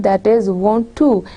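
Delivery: slow want to with both words clear; careful want to. Shown as a demonstration. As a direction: want to pronounced in full, slowly. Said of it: "say proper word".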